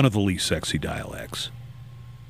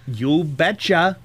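put-on slow, higher Alaskan folksy accent; Sarah Palin impression; 7 semitones higher, much slower than usual. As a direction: stretch out a folksy Alaskan you betcha. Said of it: "Is it the Sarah Palin thing".

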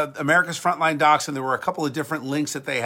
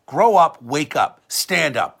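forceful; 3 dB louder, slower than usual. Real, not acted. Exhorting listeners.

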